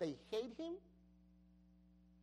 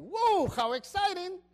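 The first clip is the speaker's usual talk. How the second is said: higher, louder playful whoa; mock excitement; 8 semitones higher, 9 dB louder than usual. Pastor imagining the king's missing reaction, mock excited. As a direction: fake the thrill lightly. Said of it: "the king doesn't really say".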